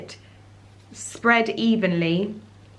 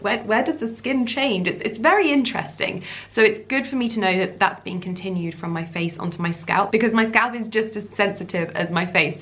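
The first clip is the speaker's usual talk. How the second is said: slight lisp from whitening strips on teeth; 2 semitones higher than usual. Real, not acted. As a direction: talk with whitening strips on your teeth, lisping a little. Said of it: "I keep lisping with my, um, teeth whitening strips on".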